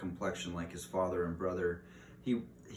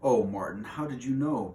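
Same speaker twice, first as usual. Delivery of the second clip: louder, higher protest at her brother; 4 semitones higher, 6 dB louder than usual. A narrator's reading. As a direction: push back at Martin's claim. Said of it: "protested Teresa".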